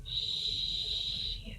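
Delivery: drawn-out whispered curse; whispered regret. Real, not acted. Player realising the spiders went unmentioned, whispered regret. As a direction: breathe the curse out under your voice.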